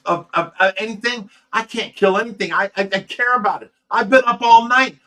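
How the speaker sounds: heated scolding, retold at moderate force; retold yelling. Rescuer berating helper who slept twice, mildly yelled retelling. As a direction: re-enact telling him off, voice climbing toward the end. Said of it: "I was yelling at him".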